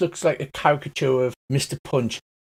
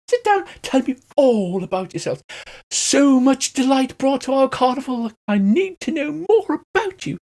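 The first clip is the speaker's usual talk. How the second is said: much higher, gushing theatrical welcome; flamboyant elf; 11 semitones higher than usual. Acted. Mister Light invites the party in, high and flamboyant. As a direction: fuss over the guests like a camp showman. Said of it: "a flamboyant elf grins from ear to ear".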